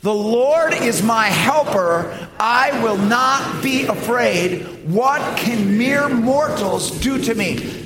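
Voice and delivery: slow, firm, declared with conviction; with confidence. Shown as a demonstration. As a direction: own the promise as you say it. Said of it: "saying this with confidence".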